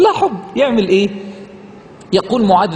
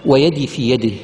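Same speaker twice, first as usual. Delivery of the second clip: low, slow recital of "ويدي في يده"; recited quote; 8 semitones lower than usual. Shown as a demonstration. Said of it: "شوف". (تلاوة منخفضة هادئة)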